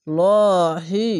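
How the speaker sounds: লহি held very long and loud with a heavy, thick L; heavy Allah sound. Shown as a demonstration. Teacher showing the heavy L of Allah, held long and loud. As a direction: give লহি a full, heavy L and stretch it. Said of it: "মোটা করতে হবে".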